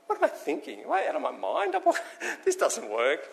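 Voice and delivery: high, laughing disbelief; panicked Peter. Acted. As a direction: giggle in panic as it dawns on you.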